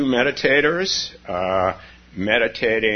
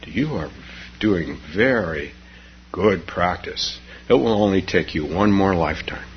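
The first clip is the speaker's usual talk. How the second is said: kind teacher; 3 semitones lower than usual. Acted. Buddha answers kindly.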